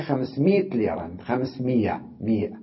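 everyday مية as "miyah"; colloquial, no hamza. Retold or imitated. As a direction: say خمسمائة as "khams-miit", no glottal stop. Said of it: "والعامة هكذا دائمًا لا تلفظ الهمزة". (نطق عامي «خمسمية» بلا همزة)

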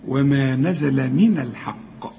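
slow, thin نزل من, full heavy qaf in الحق; light noon, heavy qaf. Shown as a demonstration. Teacher models the verse, light noon and heavy qaf in من الحق. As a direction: recite slowly, thicken only the qaf of الحق. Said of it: "وبعدين القاف هي المفخمة. هنرقق النون".

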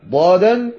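"ضادا" with a heavy emphatic d in place of ظ; wrong letter demo. Shown as a demonstration. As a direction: demonstrate the mistaken ض in "ضادا". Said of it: "ولا ينطق الضاء".

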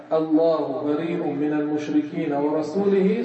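"ورسوله" said with a wrong kasra ending, slow; deliberately misvoweled "ورسوله" to show the error; wrong vowel ending. Shown as a demonstration. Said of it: "صار كفر". (نطق خاطئ متعمد لكلمة "ورسوله" بالكسر)

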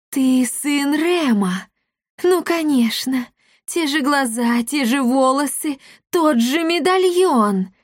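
high, slow witch voice; sorceress realizing. A narrator's reading. The sorceress recognizes the heir, slow high witch voice. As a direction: savor each proof like a villain.

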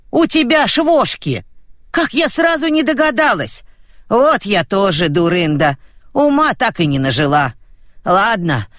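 high, gleeful laughing voice; laughing grandma. Acted. Grandma Dusya laughs at finding lice. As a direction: chuckle it out, delighted at the discovery. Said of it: "хохотала баба Дуся".

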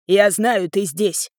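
loud roar at a hiding daughter-in-law; angry roar calling her out. Acted. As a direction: bellow her name through the door. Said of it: "заревела она".

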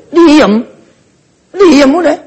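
high, short command to hush. Acted. Preacher tells the child to hush.

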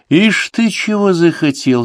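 high, slow, drawn-out scoff; mocking old woman. A narrator's reading. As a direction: sneer it like an old crone. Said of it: "задумчиво покачала головой".

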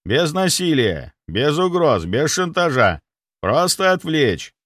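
slow, emphatic, each phrase apart; slow, spelled out. Acted. Doctor instructing his guard slowly and emphatically. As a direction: explain it like to a child.

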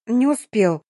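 plain reading voice

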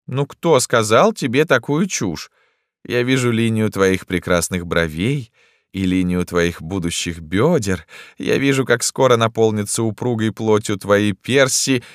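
court her with theatrical rapture; florid, wooing emperor. A narrator's reading.

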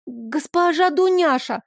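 put-on a little girl breaking in to stop the scolding; girl interrupting. A narrator's reading. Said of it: "прервала меня Кати".

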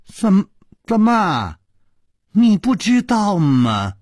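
high-pitched startled questioning; astonished. A narrator's reading. Chu Liuxiang taken aback by Yinji's ignorance, astonished. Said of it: "楚留香惊讶地说".

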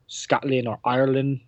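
half-hearted attempt at a Scottish accent; bad Scottish accent. Host naming his overseas listeners, badly faked Scottish accent. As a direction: try a Scottish accent and miss. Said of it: "That Scottish was really bad".

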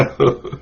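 brief, quiet laugh; soft chuckle. Real, not acted. Teacher to students after an aside, soft chuckle. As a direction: chuckle softly to yourself.

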